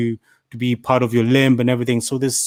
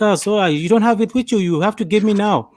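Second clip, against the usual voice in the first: mock Indian accent, pitched clearly higher; 8 semitones higher than usual. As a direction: play the pushy Indian scam caller, higher. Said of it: "you don't need to do the ac-, the Indian accent".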